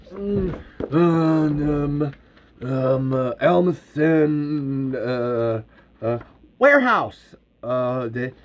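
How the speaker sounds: low, slow hesitant muttering; puzzled searching. Acted. Characters leafing through phrase books, puzzled. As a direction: hum and haw while looking up a word.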